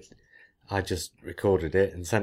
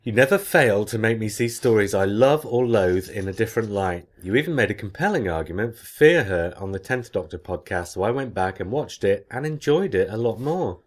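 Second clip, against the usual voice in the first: animated read-aloud of a letter; reading listener email. Acted. Host reads a fan's email on the podcast, animated read-aloud. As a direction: read it out with lively, emphatic swings.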